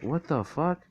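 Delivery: high, rising disbelief; mock bewildered. Retold baffled reaction of Aizawa.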